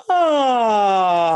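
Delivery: high, loud, held "ah" on the breath; loud sung release. Shown as a demonstration. Teacher demoing breath release on a long loud ah. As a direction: let the air out on a big open ah. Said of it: "and then you release".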